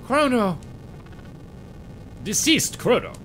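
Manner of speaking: high, loud cry of grief; anguished cry. Acted. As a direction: scream his name in anguish. Crying out for fallen friend.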